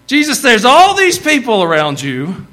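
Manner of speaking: loud, high-pitched exasperation; Tennessee plain-talk. Acted. Disciple to Jesus in a crowd, exasperated Tennessee plain talk. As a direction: scold him in disbelief, down-home style. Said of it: "let's talk about it in Tennessee".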